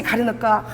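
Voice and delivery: 가르니까 in dialect sound, spoken as karinoka; dialect word. Shown as a demonstration. Pastor voicing a dialect word for the congregation, casually. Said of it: "아, 이 사투리입니다".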